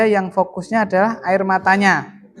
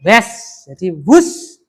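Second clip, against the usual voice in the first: quick whoosh sound; 5 dB louder, much slower than usual. Shown as a demonstration. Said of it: "lalu dengan cepat".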